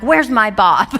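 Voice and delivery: said through a laugh at normal pitch; chuckling retelling of the line. Retold or imitated. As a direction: toss it off while laughing. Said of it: "I'm like".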